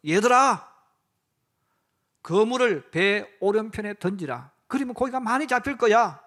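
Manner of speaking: 크게 불러 세우는 얘들아, 이어서 또렷하게; 배 위의 제자들에게 멀리서 외치듯; 멀리서 부르는 소리. Acted. (호숫가에서 제자들을 크게 부르는 예수님 목소리)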